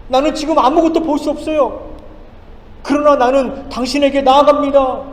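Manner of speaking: preacher voicing blind Bartimaeus pleading inwardly; inner plea. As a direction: voice the beggar's hopeful plea as he runs. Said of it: "아마 속으로 이렇게 얘기했을 거예요".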